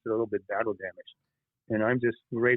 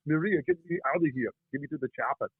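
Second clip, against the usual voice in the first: Schwarzenegger impression; 3 semitones higher than usual. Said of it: "the Arnold Schwarzenegger thing".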